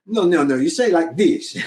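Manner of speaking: imitating a native Russian's correction, lightly accented. Native Russian correcting an actress, in a Russian accent. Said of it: "actually Russian, you know, and they're like".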